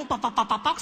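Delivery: staccato "pak-pak" imitation of talking; rapid-fire blabber. Speaker talks until someone grabs a shoe, imitated staccato blabber. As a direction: babble syllables in place of words. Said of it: "Jadi gue ngomong".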